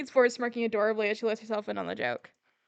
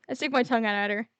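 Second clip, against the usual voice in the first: ordinary talk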